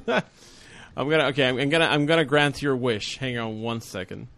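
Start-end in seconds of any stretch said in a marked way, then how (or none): 0.1-1.2 slow words through a laugh. Real, not acted. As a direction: laugh while starting to speak. Laughs mid sentence.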